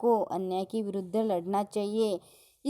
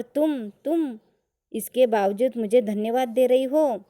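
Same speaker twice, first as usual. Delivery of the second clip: angry master; 4 dB louder than usual. Acted. Teacher reading the master raging at Julia, mock angry. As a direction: snap it at Julia like an outraged boss. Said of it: "गुस्से से आग बबूला होते हैं".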